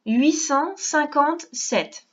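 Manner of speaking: huit cent cinquante-sept spoken slowly, each number spaced; slow dictation. Shown as a demonstration. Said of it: "On écrit".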